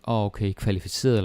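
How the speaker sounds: kvalificeret rattled off fast as if English qualified; quick careless reading. Retold or imitated. Learner's imagined quick reading, mock naive. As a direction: toss it off quickly, a little naive. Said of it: "then you think".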